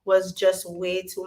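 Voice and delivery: lost voice, rough and strained; hoarse voice. Real, not acted. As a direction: talk with a worn hoarse voice. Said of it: "I even lost my voice".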